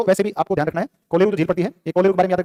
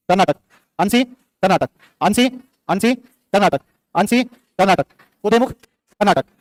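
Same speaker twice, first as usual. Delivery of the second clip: slow drill; slower than usual. Shown as a demonstration. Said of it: "ठीक है ना?".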